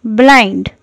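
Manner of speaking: slow teaching pace. Shown as a demonstration. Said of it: "अंधे को English में blind कहते हैं".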